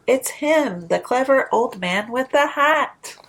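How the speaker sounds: lilting, rhythmic storybook read; sing-song picture book narration; reading to children. A narrator's reading. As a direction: read it like a bedtime rhyme to little ones.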